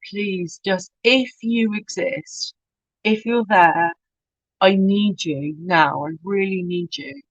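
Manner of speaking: soft, slow pleading prayer; desperate prayer. Retold or imitated. Praying in church for help, soft and pleading. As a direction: beg quietly, close to tears.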